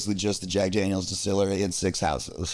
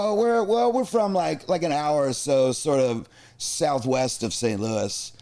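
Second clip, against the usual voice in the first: hemming and hawing; 3 semitones higher, slower than usual. Retold or imitated. Strangers placing their hometown for someone, hemming and hawing. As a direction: feel your way to an answer. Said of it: "I see 'em hemming and hawing".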